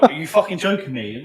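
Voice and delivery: half-laughing at the misspelt tattoo; laughing disbelief. Retold or imitated. Told the tattoo name was misspelt, laughing in loud disbelief. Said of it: "I'm like".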